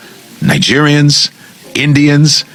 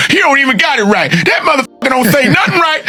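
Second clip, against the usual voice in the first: mocking commenter shout; 11 semitones higher than usual. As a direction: yell it like an angry commenter. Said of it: "you guys can go in the comments and go".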